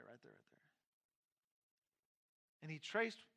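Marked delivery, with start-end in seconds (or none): 0.0-0.6 whispered, much softer repetition; hushed insistence. Retold or imitated. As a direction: whisper it to hold him there. Counselor stopping him.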